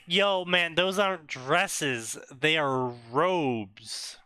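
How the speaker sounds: lightly acted Death, stretching the last words; mildly voiced Death. Death corrects Harry about dresses and robes, mildly acted, slowing down. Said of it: "Death is like".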